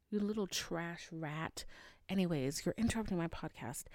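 muttering at the car outside; scolding the car. Real, not acted. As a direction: grumble at the noisy car. Scolding a loud passing car.

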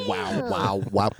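imitated talk-box wows in the style of a rock guitarist. Guitarist in the background, imitated wows. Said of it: "Richie Sambora's in the background, just going".

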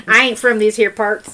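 laughing country twang; mock country accent. Joking with co-host about origins, mock country accent. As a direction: put on a folksy country accent. Hamming up country talk together.

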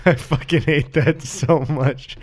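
laughing while talking; half laughing it out. Real, not acted. Laughing at gum chewing.

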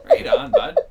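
loud, high hick Canadian cheer; hick Canadian accent. Shown as a demonstration. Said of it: "they fucking talk like this".

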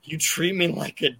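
put-on high, whiny little boy voice, rising at each end; bratty kid. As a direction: play the spoiled kid complaining at dinner. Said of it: "that little kid was like".

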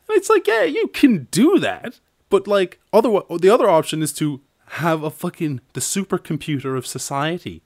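scoffing. Real, not acted. Ranting against central planning, scoffing. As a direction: sneer yeah you can do that.

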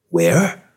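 WHERE with a sharply rising tune; puzzled echo, WHERE swinging upward; echoing question. A narrator's reading. Confused man echoing the cop's question, WHERE rising. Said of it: "Lois echoed".

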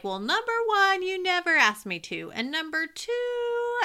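high-pitched, rapid-fire comeback; indignant listing. Retold or imitated. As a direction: rattle off reasons, worked up. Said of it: "I just went off listing stuff".

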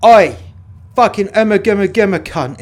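loud, rough yell down the corridor; angry shout. Real, not acted. Guard yelling at a prisoner to take the food, loud. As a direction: bark at the inmate.

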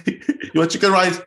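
high, coaxing Singaporean grandma; grandma spoiling a frowning grandchild, coaxing; doting grandma. Retold or imitated. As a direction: coax like a fussing grandma offering treats. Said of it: "my grandma go".

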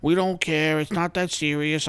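high, loud mocking party-crowd voice; hammed-up careless partier; mocking partygoers. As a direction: sneer out their carefree words. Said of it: "you see videos of them, they're like".

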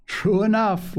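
high, lightly amused agreement; laughing. A narrator's reading. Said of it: "laughed Ben".

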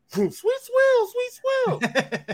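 whooshing high-pitched imitated taunt. Opponent flies past the rookie, high voice. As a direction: zoom past calling it way up high. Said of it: "He got a high voice".

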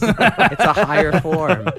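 slow, high, grand and laughing; hammed-up haughty elf, drawn out; mock lofty elf voice. Joking with friends about Eldar, hammed-up lofty elf voice. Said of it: "elevated to space".

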